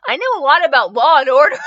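loud defensive comeback; emphatic retort. A narrator's reading. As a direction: protest it forcefully. John retorts to the bulldog.

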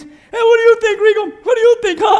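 playful prodding guests; goading friends. Retold or imitated. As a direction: egg him on like a nosy friend.

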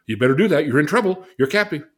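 loud, high menacing threat; mock Lucifer. Lucifer threatening the listener, high and loud. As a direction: threaten like a tempter. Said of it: "Lucifer says".

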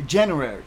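January said the English way, starting with a J as in jam; English pronunciation. Shown as a demonstration. Teacher giving learners the English month, January in English pronunciation. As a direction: say January in English, four syllables. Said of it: "in English, you say".

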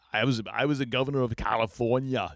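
put-on a light stab at a thick Austrian accent; half-hearted Austrian bodybuilder boast; mock Austrian accent, trading governor brags; Arnold Schwarzenegger. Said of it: "I think I just hurt my jaw doing that".

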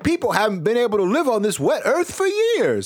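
a lightly voiced old local; Vermont local voice. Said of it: "They're like".

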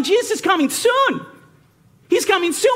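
a high, sing-song parody of a preacher's promise; high mock preacher, repeating the promise. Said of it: "they keep telling me".

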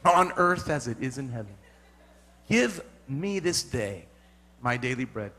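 low, solemn prayer voice; mock prayer. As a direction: keep praying low and pious. Mock-prays the Lord's Prayer.

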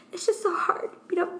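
high mock-sad wail ending in a slow, loud punchline; fake sad turned brag. Jordan fooling a friend, high mock-sad then loud brag. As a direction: play sad, then spring the joke. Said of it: "And I do that".

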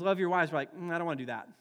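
normal talking voice

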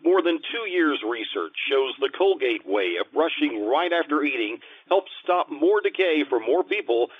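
smooth announcer voice, selling the product; radio announcer read. Acted. Announcer to listeners before the sponsor ad, smooth announcer read.

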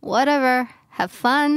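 dry, sarcastic whatever; sulky friend brushing off the invitation, sarcastic. Acted. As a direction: toss it off with biting sarcasm. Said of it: "ประชด ล้วนๆเลย".

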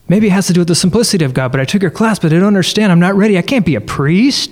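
rising, rushing worried voice; anxious rambling. Retold or imitated. Retelling his own past worries.

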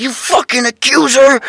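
high, slow mock accusation; Walmart lady accusing. Imitating lady yelling at a man, slow high mock. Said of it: "And she's like".

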